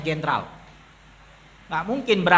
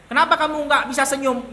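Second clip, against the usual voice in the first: lightly acted, higher-pitched questioner; imagined questioner; 5 semitones higher than usual. Preacher imagines someone asking about a missing smile, lightly acted questioner. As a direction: put the question in a slightly raised voice. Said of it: "Nggak ada orang datang melapor".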